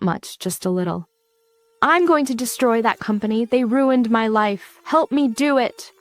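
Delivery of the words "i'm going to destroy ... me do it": gentle but determined ask; softened. Acted. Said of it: "Nira's tone softens".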